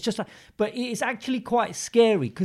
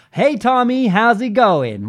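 radio presenter voice; 3 semitones higher, 4 dB louder, much slower than usual. Retold or imitated. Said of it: "talk to you now like a radio presenter".

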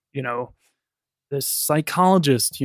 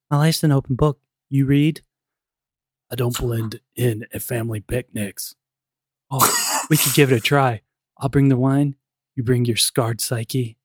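bad acting; 2 semitones lower than usual. Shown as a demonstration. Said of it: "if you don't mind me acting a little bit".

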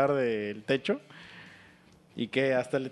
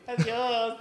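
high mock goodbye call; cartoon farewell; 6 semitones higher than usual. Imagined Chaos saying goodbye, high cartoon farewell. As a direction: playfully imitate a high farewell cry. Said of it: "Y puto Chavos así".

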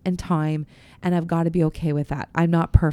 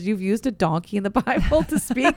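laughing through a quoted prayer about the donkey; giggling while quoting the Bible story; 5 semitones higher, 7 dB louder than usual. Retold or imitated. Pastor laughing as she tells her co-host the donkey line. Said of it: "I always say this".

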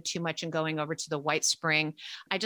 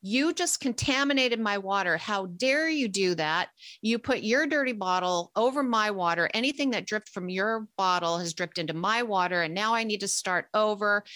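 indignant scolding, only mildly raised; retold yelling; 2 semitones higher than usual. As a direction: act out a woman telling someone off. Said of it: "you know, yelling at me".

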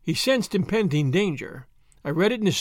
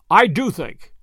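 I do think, firm and louder; insist, pressing every word; with emphasis; 6 dB louder, slower than usual. Acted. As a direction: lean hard on do. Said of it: "with emphasis".

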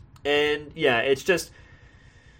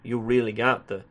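Southern narrator impression; 3 semitones lower than usual. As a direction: play a Southern narrator tutting at someone. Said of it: "me doing the impression".

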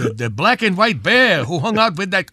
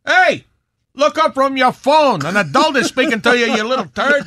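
scolding; 4 semitones higher than usual. Acted. Scolding grandson.

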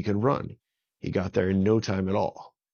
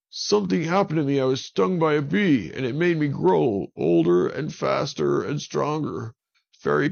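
higher, louder, anxious explaining; urgent pleading; 6 semitones higher, 4 dB louder than usual. A narrator's reading. Avon pleads with Kahuna to believe him, high and urgent. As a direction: rush it out, desperate to be believed.

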